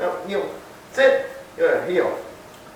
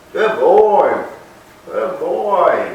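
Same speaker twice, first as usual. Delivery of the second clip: louder praise for the dog; 4 semitones higher, 3 dB louder, much slower than usual. Real, not acted. Praise after heel.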